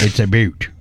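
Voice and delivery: "a boot" said like the word boot; Canadian about. Shown as a demonstration. Showing cohost the Canadian "about" as "a boot". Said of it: "when they say about".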